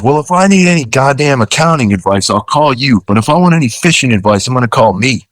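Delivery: retold telling-off. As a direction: put the nitpicker in his place, mimicking. Captain tells off client, retold.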